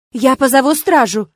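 loud, severe threat; stern threat. A narrator's reading. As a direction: threaten to call the guards. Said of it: "суровым видом пригрозила Ирма".

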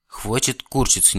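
stern, slow and hard; harsh. Acted. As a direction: cut him off sharply. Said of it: "неожиданно жёстко сказал вампир". (жёстко)

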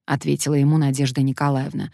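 ordinary delivery

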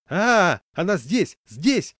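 high, very loud panic; panicked scream. A narrator's reading. Passenger thinking the dog is beside her, panicked. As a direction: shriek in alarm.

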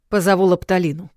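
short, firm male order; curt remark. Acted. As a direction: snap it out curtly. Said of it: "коротко бросил стязатель". (коротко, отрывисто)

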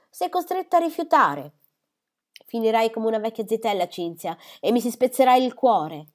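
self-pitying lament, high and loud; mother wailing about a spinster daughter; melodramatic mother. Acted. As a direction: overdo the heartbreak.

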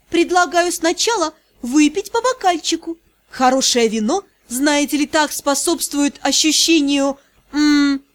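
высоко, медленно, соблазнительно мурлыча; заманить его сладким мурлыканьем; seductive demon purr. Acted. Героиня соблазняет графа. (соблазнительное мурлыканье)

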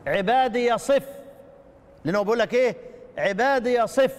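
عبادي said with an open ya before the next word; ya kept with fatha. Shown as a demonstration. Teacher showing Shu'ba's reading. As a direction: keep the ya and open it. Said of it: "بإثبات الياء مفتوحة".

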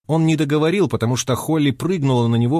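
plain reading voice

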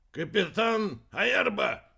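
high, slow, drawn-out announcement; announcing. A narrator's reading. Aerba introduces himself to the others, announcing. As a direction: announce the name grandly, stretched out. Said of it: "сообщил Уэрба".

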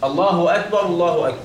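الله أكبر with heavy لام in الله; model recitation. Shown as a demonstration. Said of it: "نقول إيه بقى؟". (نطق نموذجي لالله أكبر)

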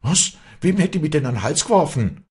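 high, loud, rushed question; shocked stammer. A narrator's reading. Girl accused of shamelessness, stammering in shock. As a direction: blurt it out, aghast at the charge. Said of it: "stammelte das Mädchen erbleichend".

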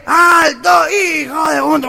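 orden nasal, gritada y aguda; líder gangoso. Acted. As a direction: frena la marcha imitando a un gangoso. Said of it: "Llegan a Colón y General Paz y dice". (alto gritado con voz gangosa)

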